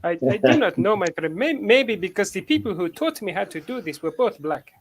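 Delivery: lightly put-on African accent; a hint of African accent. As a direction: answer in a mock African accent. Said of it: "how can you do that".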